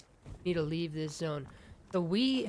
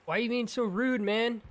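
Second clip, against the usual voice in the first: mock offended; 6 semitones higher, 4 dB louder than usual. Scolding the companion.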